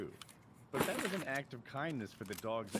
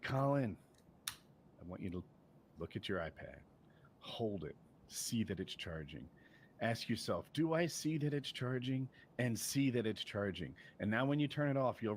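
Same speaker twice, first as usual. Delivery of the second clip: calm coaching. Retold or imitated. Parent talking Colin through checking his iPad, calm coaching.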